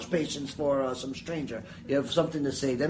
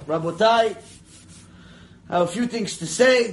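confident; 2 semitones higher, 4 dB louder than usual. Retold or imitated. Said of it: "with all the confidence in the world".

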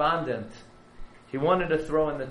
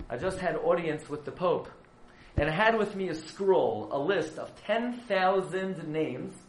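pleading rabbi; 2 semitones higher than usual. Retold or imitated. Herzog pleading with the Pope.

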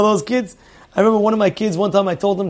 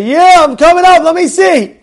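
much higher and louder, a warning call; calling up loudly; 9 semitones higher, 4 dB louder than usual. Retold or imitated. Father warning daughter he's coming upstairs, loud. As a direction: raise the voice to warn her you're coming. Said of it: "I say".

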